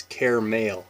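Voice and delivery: "caramel" as care-uh-mel; three syllable caramel. Shown as a demonstration. Vlogger showing viewers how she says caramel. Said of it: "It's not caramel".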